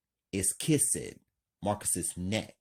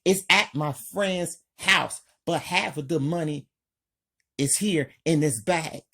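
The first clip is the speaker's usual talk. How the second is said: panicked confession; 8 semitones higher, 4 dB louder than usual. A narrator's reading.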